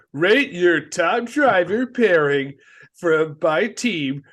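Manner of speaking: slow, drawn-out mock contest promo; lightly hammed-up announcer read; mock quiz announcer. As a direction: stretch each phrase like a cheesy poll announcement. Mock quiz announcer reading a poll.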